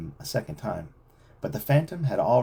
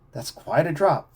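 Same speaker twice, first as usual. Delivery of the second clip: anxious; 5 semitones higher, 4 dB louder than usual. A narrator's reading. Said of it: "Frank said anxiously".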